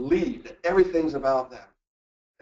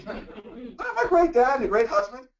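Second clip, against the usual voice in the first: higher, slow, puffed-up insistence; hammed-up proud boasting; slow self-praise; 8 semitones higher, slower than usual. Continuing the mock indignant self.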